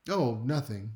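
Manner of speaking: easy, offhand dismissal; casual brush-off. Acted. Tired partner zoned out at the TV, casual brush-off. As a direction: brush it off as no problem. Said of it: "if you hear someone say".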